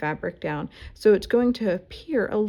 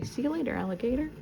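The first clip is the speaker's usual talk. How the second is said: put-on high, sing-song voice for a child; playful mom talking to a toddler; talking to kids; 6 semitones higher, faster than usual. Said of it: "talking to y'all like you're one of my kids".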